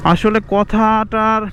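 slow, deliberate pace; speaking slowly. Real, not acted. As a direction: draw the words out on purpose. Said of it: "কথাটা আমি আস্তে আস্তে বলতেছি". (ইচ্ছে করে ধীরে ধীরে বলা)

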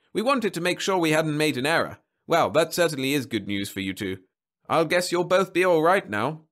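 high, lilting congratulation; genial marriage counsellor, upbeat. Acted. Counsellor reassuring husband about the ratings, upbeat. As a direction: deliver it as cheery good news.

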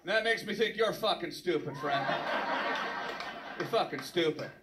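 breezy friendly tone while insulting; mock phone call. The speaker calls buddy Frank on the phone, breezy mock insults.

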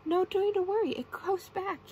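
high, loud call; character yell. A narrator's reading. SpongeBob reassuring guests as they run away, yelling. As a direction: call after a fleeing crowd. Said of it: "yelled SpongeBob".

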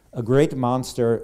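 put-on slow, loud Mexican-Spanish accent; a quick try at a Mexican accent; Guillermo del Toro accent. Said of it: "I just tried to do the accent".

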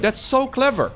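a hint of the high Mario voice; mock Mario voice. Streamer to chat, lightly echoing the Mario voice. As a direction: lightly lift into the plumber's cheery tone.

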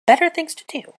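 high, loud, outraged echo; shrieky indignation. A narrator's reading. Witch throws his dismissal back at him, shrieky indignation. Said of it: "Granger's shriekiness increased".

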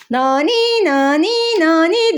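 sing-song nani nani like an ambulance siren; playful ambulance wail; siren imitation. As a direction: copy a siren for the kids. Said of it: "diye bir ambulans geliyor".

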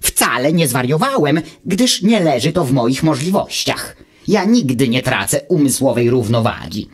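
lightly voiced know-it-all little machine, calm; a hint of a smug gadget lecturing; Wuch's voice. Wuch answers Automateusz from his ear, lightly voiced and calm.

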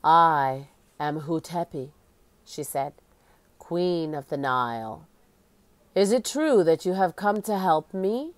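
lightly voiced ghostly queen, solemn; hollow echoing voice. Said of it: "She spoke in a hollow, echoing voice".

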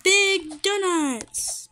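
slow, stretched exclamation; drawn-out delight. Real, not acted. Player spotting big donuts in the game, drawn-out delight. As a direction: draw out each word with delight.

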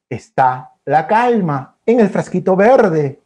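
slow, calm storytelling. Acted. Storyteller opening the green jar of calm, slow and calm. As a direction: ease into calm.

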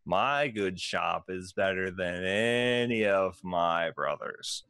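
slow, drawn-out gnome merchant pitch; a salesy gnome savouring every word; lightly voiced gnome proudly pitching his shop; gnome shopkeeper.

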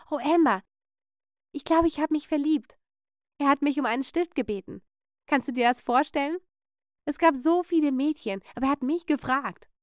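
lifted, lightly gushing voice; excited teenage girl, mildly giddy; smitten confession. Acted. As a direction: confide a new crush with delight. Cousin confides she is in love.

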